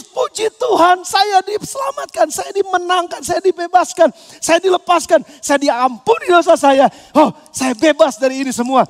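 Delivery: freed addict praising God, joyful; joyful praise. Retold or imitated. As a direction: exult at being set free. Newly saved addict rejoicing.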